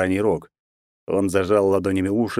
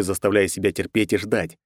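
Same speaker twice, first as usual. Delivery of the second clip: plain reading voice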